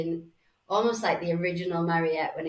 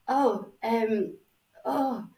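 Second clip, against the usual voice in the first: higher, hesitant little ohs; flustered; 4 semitones higher, much slower than usual. Retold or imitated. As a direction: imitate someone caught off guard, stalling. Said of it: "really a bit flustered".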